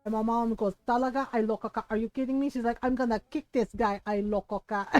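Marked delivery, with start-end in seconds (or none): 0.9-2.5 mock-outraged mother, lightly voiced; a touch of accented motherly indignation; imitating mad mom. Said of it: "She was so mad". 2.8-4.9 mildly mock-angry mother's threat; lightly voiced irate mother; imitating mad mom. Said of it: "She was so mad".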